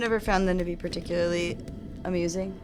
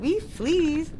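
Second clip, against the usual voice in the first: squeaky high bug voice; high flea voice; 9 semitones higher than usual. Pretend. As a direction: pitch it way up like a tiny flea. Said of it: "A flea would talk like this".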